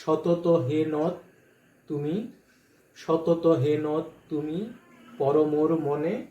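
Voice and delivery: teacher shows how the line must be recited; recitation. Shown as a demonstration. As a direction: recite সতত হে নদ তুমি slowly, as in a formal poem reading. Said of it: "আমাকে উচ্চারণ করতে হবে".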